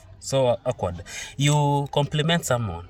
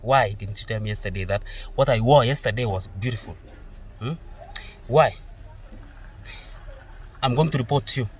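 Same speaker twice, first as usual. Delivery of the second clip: mock offended retort. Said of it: "she tells you".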